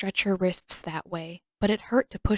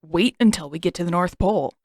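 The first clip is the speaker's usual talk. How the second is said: condescending lecture; 7 dB louder than usual. Acted. Sokka lecturing his sister.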